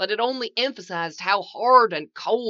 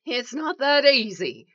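high with fear; 7 semitones higher, 4 dB louder than usual. A narrator's reading. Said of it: "his voice going high with a new, unfamiliar emotion. Fear".

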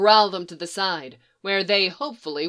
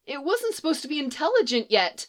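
hushed and scared; 8 semitones higher than usual. A narrator's reading. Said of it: "hushed and scared".

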